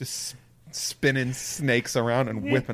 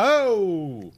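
mock New Zealand exclamation; 7 semitones higher than usual. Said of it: "in a New Zealand accent".

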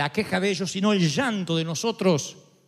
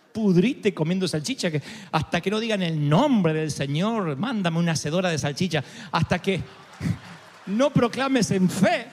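fiery preaching; 4 dB louder than usual. Acted. Preaching at full force.

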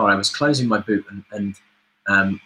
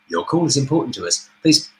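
phone menu voice. Shown as a demonstration. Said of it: "I'd pop up and go".

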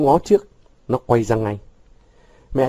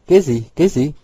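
eager, slightly raised clamouring; excited clamour; 4 semitones higher, 3 dB louder than usual. A narrator's reading. Friends pressing Vũ to reveal his plan, excited clamour. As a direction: pipe up eagerly, a little higher. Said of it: "nhao nhao".

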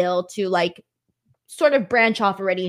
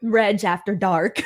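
teasing; slower than usual. Acted. Teasing, slow with laugh.

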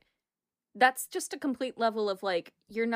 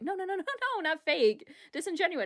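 hasty backpedalling; 6 semitones higher than usual. Retold or imitated. Acted backpedalling reply in retold argument.

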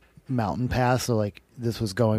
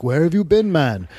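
surprised; 6 semitones higher, 7 dB louder than usual. Retold or imitated. Organizers surprised at return.

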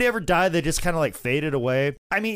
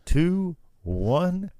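1 robotic machine voice; 3 semitones lower, much slower than usual. Retold or imitated. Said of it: "the machine will go".

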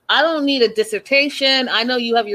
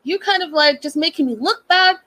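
mock attitude; 5 semitones higher than usual. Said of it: "she got a little attitude".

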